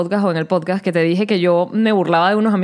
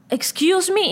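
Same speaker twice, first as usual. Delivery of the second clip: meek excuse me; 9 semitones higher, much slower than usual. Retold or imitated. Freezing up on the phone.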